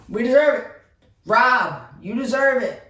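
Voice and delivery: loud, high, exasperated outburst; a fan shouting at his team's front office; frustrated shout. Real, not acted. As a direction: yell it out at the team in frustration. Fan venting over the team's failures.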